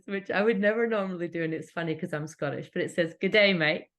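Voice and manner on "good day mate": mock Aussie greeting. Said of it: "the most Aussie thing you could say".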